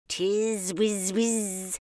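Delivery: slow, peevish bee squeak. Acted. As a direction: drag out a grumpy bee squeak. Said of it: "in a peevish squeak".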